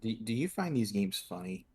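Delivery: deadpan. Real, not acted. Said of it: "I said that in a deadpan asshole voice".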